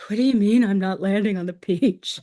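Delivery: hushed, breathy voiced-out whisper of disbelief; whispered quote. Swimmer asking the crew in a stunned whisper. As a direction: whisper it like she can't believe it. Retold swimmer's confused reaction.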